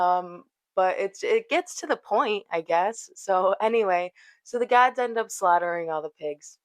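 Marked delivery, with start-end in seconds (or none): 4.4-6.6 words run together, half swallowed; mumbled. Real, not acted. Telling the pig story to viewers, mumbled and unclear. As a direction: mumble it without opening up. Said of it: "I kinda mumbled that".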